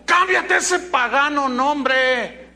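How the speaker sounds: loud, high, drawn-out command; slow indignant shout, acted out; mock rebuke. Paul supposedly ordering Apolos to rename himself, shouted rebuke.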